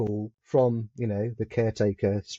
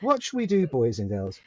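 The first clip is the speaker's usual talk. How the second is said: pantomime fairy; 2 semitones higher than usual. Acted. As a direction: appeal to the children in the audience. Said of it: "the fairy usually says something like".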